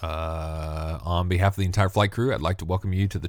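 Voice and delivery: pilot on the PA system; calm cockpit announcement voice; airline captain announcement. Pretend. Mock pilot announcement intro.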